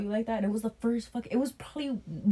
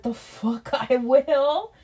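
laughing refusal; 6 semitones higher, 7 dB louder, much slower than usual. Retold or imitated. Laughing refusal of her order.

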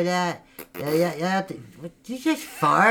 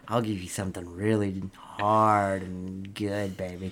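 mock sleazy seducer; 9 semitones lower, 6 dB quieter than usual. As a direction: play it as a hammy lover.

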